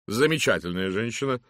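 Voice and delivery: loud, hearty lady's greeting; booming matron. Acted. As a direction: hail him like a bossy matron. Mrs Masterton speaks. (громкий зычный голос дамы)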